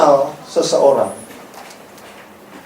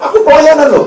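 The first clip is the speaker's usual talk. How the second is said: much higher, loud bragging whine; mock self-important volunteer; 6 dB louder than usual. Church volunteer bragging to Jesus about serving, high whiny voice. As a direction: insist on your church service, high and pushy. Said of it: "yang datang gini".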